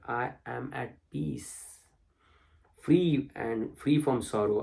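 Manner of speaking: reciting sacred text line by line; scripture reading. Acted. Teacher reads the Brahman verses to listeners, solemn recitation. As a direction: read it as holy words, each line its own statement.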